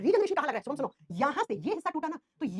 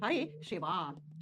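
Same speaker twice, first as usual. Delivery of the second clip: slow dictation; 8 semitones lower, 5 dB quieter, much slower than usual. Shown as a demonstration.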